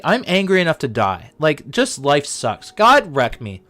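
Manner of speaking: mock angry Jonah. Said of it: "he was so angry".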